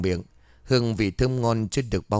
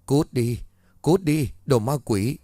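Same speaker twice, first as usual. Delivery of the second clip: higher, shouting at the demons; wife screaming at husband she thinks is a demon; loud yell; 4 semitones higher than usual. Acted. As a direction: drive them away with a yell. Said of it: "rồi hét lớn".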